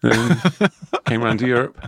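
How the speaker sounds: mock clever re-recorded take; hint of a know-it-all lecturer; voice changes mid sentence. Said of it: "I'm just gonna re-record this bit".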